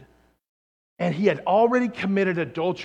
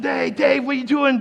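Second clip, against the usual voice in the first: casual friendly greeting; 8 semitones higher, 8 dB louder than usual. Retold or imitated. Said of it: "Here's Nathan. Says".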